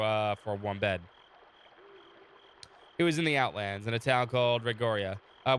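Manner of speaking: steady storyteller read of the game text; story narration. Acted. Streamer reading the game story to chat, calm narration. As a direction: narrate the scene for the viewers.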